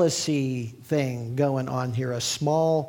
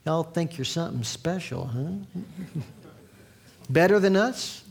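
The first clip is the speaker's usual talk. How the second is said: put-on mild Southern accent on a jealous neighbour; 2 semitones higher than usual. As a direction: play a resentful Southern small-towner in a Southern accent. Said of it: "Why do I put a Southern accent on?".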